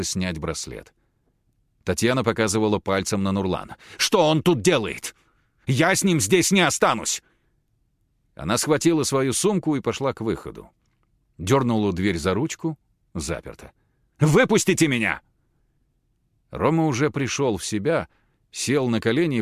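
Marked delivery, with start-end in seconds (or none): 4.0-7.2 high, loud indignant protest; indignant outburst. Acted. Tatiana refuses to stay. 14.2-15.2 high, loud plea to be let out; locked in, she yells to be let out; demanding shout. Acted. Locked door, Tatiana demands out.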